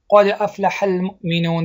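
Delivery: قد افلح المؤمنون recited, قد with short a; recitation demo. Shown as a demonstration. Teacher modelling the verse for the class. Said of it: "دیدین؟".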